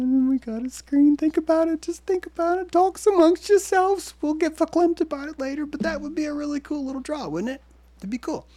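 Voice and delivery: put-on high voice. Selling viewers on a drive-in, hammed-up high voice. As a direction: ham it up like a Yiddish auntie.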